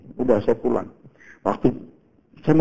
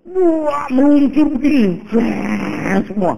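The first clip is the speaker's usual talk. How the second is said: much higher, excited exclaim; louder, thrilled wonder; amazed; 12 semitones higher, 4 dB louder, much slower than usual. Retold or imitated. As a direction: marvel as the road opens up. Marvels as traffic opens.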